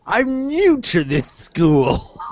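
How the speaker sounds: very slow, high, hammed-up pupil voice; mock wizard-school newcomer; Harry Potter character. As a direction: play a silly new schoolkid, high and drawn out. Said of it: "a random character from Harry Potter".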